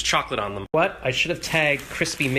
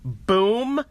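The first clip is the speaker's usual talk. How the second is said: radio jingle; 7 semitones higher, 4 dB louder than usual. Pretend. Echoing the radio station name.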